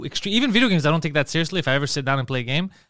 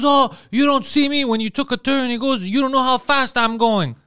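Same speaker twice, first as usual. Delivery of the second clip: a higher, mocking voice for the rude biker; imitating the biker; 8 semitones higher, 3 dB louder than usual. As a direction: play the biker brushing off blame with a sneer. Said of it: "And he goes".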